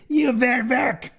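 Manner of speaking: slow mock German accent. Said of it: "in a German accent".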